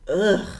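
mock groan of distaste; put-off "ugh"; disgusted ugh. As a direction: groan as if turned off. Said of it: "I'm so turned off".

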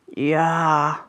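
high, drawn-out pitiful moan; wailing creature. A narrator's reading. The injured creature answers from its niche, wailing. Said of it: "jammerte das Etwas".

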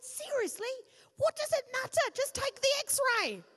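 fed up, get it over with; mock fed-up patient; exasperated. Retold exasperated reply to radiographer.

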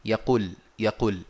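"يقول" with its long vowel cut short; shortened madd demo. Shown as a demonstration. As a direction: say "يقول" clipping the long و below two counts. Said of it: "تنطق هكذا".

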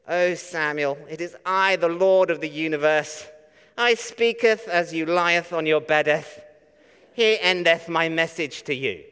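mock-solemn Lord speaking old English; a hint of a pompous King James God; churchy King James voice. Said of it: "in a really holy or churchy or sort of King James sort of voice".

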